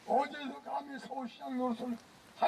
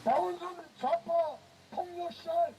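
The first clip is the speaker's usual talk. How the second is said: roaring rallying speech; 2 semitones higher than usual. Real, not acted. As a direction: roar the demand to the crowd. Leading crowd chant at rally.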